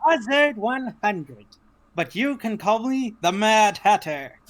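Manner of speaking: lightly voiced eccentric hatter; a hint of the Mad Hatter. Introduces self as Mad Hatter.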